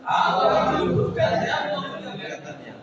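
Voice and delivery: fervent reading. Acted. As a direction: proclaim it with full force. Preacher continues the shouted reading.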